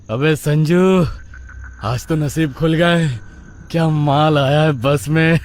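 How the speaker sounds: high, excited leering to a buddy; leering lout. Acted. Rowdy Billa to Sanju about a girl boarding, leering. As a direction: crow about it like a street rowdy.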